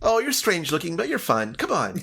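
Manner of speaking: high voice giggling through it; amused halfling hostess, high and giggly; Nimsy laughing. Acted. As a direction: laugh out a squeaky welcome. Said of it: "She's like".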